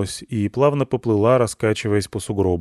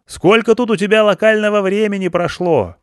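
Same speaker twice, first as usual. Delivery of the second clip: loud, much higher shout; yelling again; 11 semitones higher, 5 dB louder than usual. Acted. Stepanych to blinded Ivan, yelling again. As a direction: bellow the question at him. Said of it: "но потом заорал снова".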